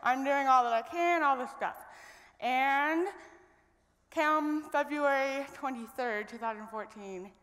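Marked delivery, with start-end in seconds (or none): 0.0-1.8 bright upbeat retelling of past excitement; excited relief. Retold or imitated. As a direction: pitch jumps high on sweet and three, buoyant and pleased. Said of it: "And I was like".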